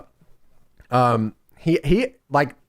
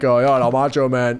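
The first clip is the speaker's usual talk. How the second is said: put-on old wrestler voice; 5 semitones lower than usual. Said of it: "every old wrestler talks just like that".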